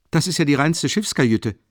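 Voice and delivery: high, loud and boisterous, a big clumsy student; hearty booming Rasumichin. Acted. Rasumichin ducking into the tiny room, loud and hearty. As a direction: fill the cramped room with your voice.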